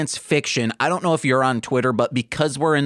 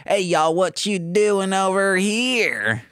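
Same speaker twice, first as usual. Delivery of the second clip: put-on Southern accent; 4 semitones higher than usual. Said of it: "would just be like".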